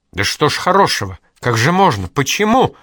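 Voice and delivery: high, loud desperate cry; shouting. Acted. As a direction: cry out in disbelief. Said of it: "закричала Инга".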